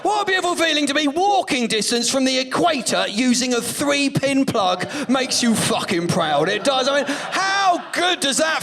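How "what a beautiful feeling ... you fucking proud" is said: mock proud shout. Real, not acted. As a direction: swell with fake national pride.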